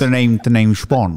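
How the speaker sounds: slow, low mock Bond line; lightly voiced suave spy; James Bond voice. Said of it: "Say something else".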